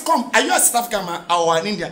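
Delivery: fast, soft challenge; quick low question. Retold or imitated. Comedian questions a Nigerian man, fast and soft. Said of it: "I say".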